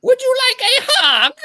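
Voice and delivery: put-on gentle orb to a child. Gregory the orb talking sweetly to little Tobio. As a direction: coo kindly to a small boy.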